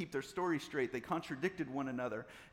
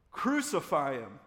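loud, drawn-out crowd shout; shouted back; 8 dB louder, slower than usual. A narrator's reading. Crowd answering Pilate about Jesus, shouting back. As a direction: shout the verdict slowly. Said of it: "they shouted back".

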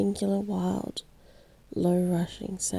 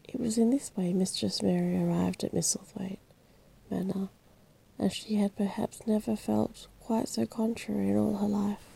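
bedtime story reading. A narrator's reading. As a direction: read it like a calm bedtime story.

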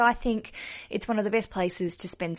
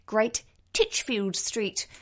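slow, put-on English accent; much slower than usual. Shown as a demonstration. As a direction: say it slowly in a mock English accent. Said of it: "That's my English accent for you".

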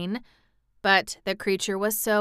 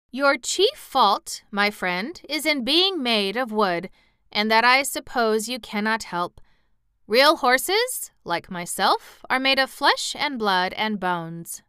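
raised, emphatic horse voice; condescending cab horse; 4 semitones higher, 4 dB louder than usual. Acted. Cab horse explains real horses to sawhorse, mildly condescending.

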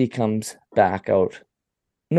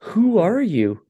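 high, loud mocking Shelley voice; squeaky Shelley voice; 7 semitones higher, 5 dB louder, slower than usual. Narrator mimics Shelley calling to the girl, high and loud.

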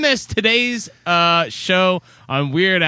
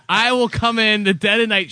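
threat spoken through laughter; laughing; 4 semitones higher than usual. Acted. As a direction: laugh while you threaten.

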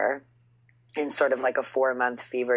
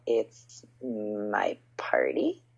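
whispered deadpan; 4 semitones lower, much slower than usual. Retold or imitated. Deadpan reply to will.i.am.

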